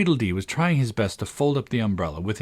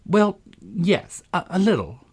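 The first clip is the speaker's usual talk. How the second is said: high, hesitant, gentle reply; tactful, pitched-up hesitation; 10 semitones higher, slower than usual. A narrator's reading. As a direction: break it to him kindly, faltering. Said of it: "Alice replied gently".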